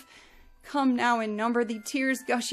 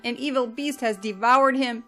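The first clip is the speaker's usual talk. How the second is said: higher and louder, breaking with grief; anguished loud cry; 4 semitones higher, 5 dB louder than usual. Acted. Yaakov believing his son was devoured, anguished cry. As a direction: wail it in despair. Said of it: "he cried out with a loud voice".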